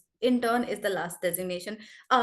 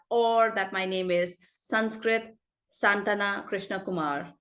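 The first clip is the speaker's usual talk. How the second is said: name broken into paced stressed chunks; with pauses and stress. Shown as a demonstration. Trainer modelling a long name with pauses and stress. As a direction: pause between each part of the name. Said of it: "So you say it with pauses, with stress".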